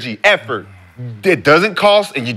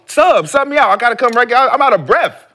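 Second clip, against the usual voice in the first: higher-pitched plea to be taken out; lightly acted winded player; 5 semitones higher than usual. Player calling to the bench to come out, pleading. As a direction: player begging the coach for a substitution, urgent and higher.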